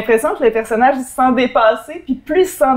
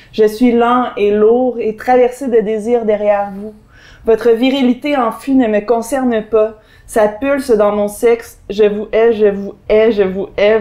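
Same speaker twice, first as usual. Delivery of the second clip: slow, measured recitation; poem read aloud, unhurried; literary reading. Acted. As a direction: read it out slowly, line by line. Reads an extract aloud.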